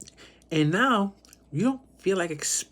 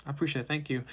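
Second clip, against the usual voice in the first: soft, unbothered polite refusal; easygoing quiet thanks; casual, calm; 6 dB quieter, faster than usual. Acted. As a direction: turn it down calmly, getting softer. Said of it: "very casually, very calmly, you're like".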